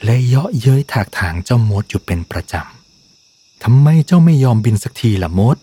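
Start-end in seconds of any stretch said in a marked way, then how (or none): 3.2-5.6 a slow, lightly growled taunt; half-hearted snarl, dragged out slowly; mild growl. Acted. Dragon Delbert taunting Mode, a mild slow growl. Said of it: "เดลเบิร์ตคำรามใส่โมด".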